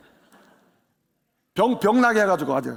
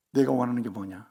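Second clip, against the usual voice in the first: voice of God; 10 semitones lower, 5 dB quieter than usual. Acted. God speaks to Solomon in dream.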